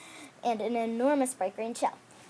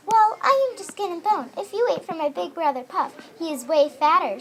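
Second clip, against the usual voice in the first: medium turtle; 6 semitones higher, 8 dB louder than usual. Acted. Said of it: "said the medium turtle".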